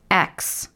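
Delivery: a soft breathy noise of disgust at a bitter taste; little girl's yuck sound. Acted. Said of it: "machte das kleine Mädchen". (angeekeltes „Ax“)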